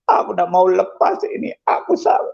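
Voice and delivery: choked, pleading prayer to God; tearful plea. Retold or imitated. Preacher reliving his first prayer to God, tearfully pleading. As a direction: plead through tears, repeating it with growing insistence. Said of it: "Saya itu nangis".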